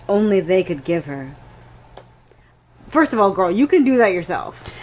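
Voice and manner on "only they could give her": lower, drawn-to-a-close excerpt reading; lightly dramatised book excerpt; dramatic reading. Acted. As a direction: finish the passage with a touch of drama. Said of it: "If I may dramatically read".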